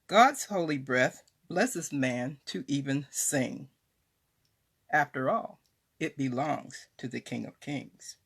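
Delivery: measured devotional poem reading with pauses after each phrase; poem recitation. Acted. Author shares her poem on God's holy breath, reverent recitation. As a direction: recite it line by line, lifting key phrases. Reads own poem aloud.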